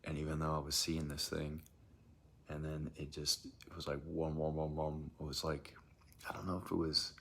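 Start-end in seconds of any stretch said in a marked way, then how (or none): 4.1-5.1 lightly imitated pulsing noise; subwoofer imitation. Describing the noise that freaked them out, subwoofer imitation. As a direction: mimic a repeating bass throb at usual pitch. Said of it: "like a subwoof".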